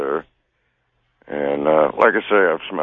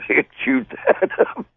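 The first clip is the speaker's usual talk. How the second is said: laughing. Real, not acted. Laughing at rats chewing cord.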